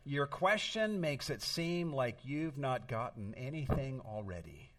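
retelling wife's amused reply through a laugh; a touch of laughter, imitating his wife. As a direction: laugh lightly while asking. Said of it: "she laughed and said".

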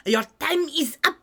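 lightly voiced snooty French chef. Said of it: "a cartoonish French stereotype".

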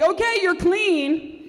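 slowly announced okay; slow, high mock official. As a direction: stretch out the all-clear, high. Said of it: "they're like".

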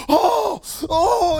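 bursting with hype after a big win; hyped-up yell. Retold or imitated. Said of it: "he is hyped up".

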